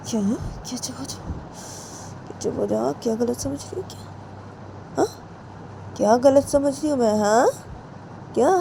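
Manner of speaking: retort. Acted. Jiya retorts to Ritu.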